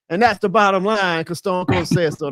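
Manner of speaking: Stone Cold catchphrase. Retold or imitated. Fan quoting his wrestling hero to the hosts, lightly imitated catchphrase. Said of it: "Stone Cold had the".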